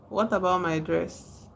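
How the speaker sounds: usual speaking voice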